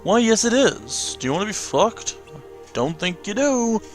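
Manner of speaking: slow, drawn-out mock-grand answer; theatrical master figure. Master answering the doubting union leader, slow theatrical put-down. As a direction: stretch it out as a hammy mentor.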